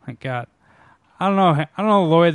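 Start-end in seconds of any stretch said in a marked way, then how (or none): 1.2-2.3 Dumb and Dumber quote. Retold or imitated. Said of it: "that Dumb and Dumber line?".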